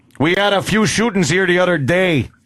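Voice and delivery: put-on Chicago-accented speech. A character complaining about the neighborhood, in a chicago accent. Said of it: "I love the Chicago accent".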